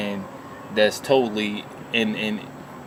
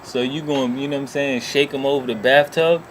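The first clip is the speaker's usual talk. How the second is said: incredulous yelling; 5 semitones higher, 4 dB louder than usual. Retold or imitated. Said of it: "I was like".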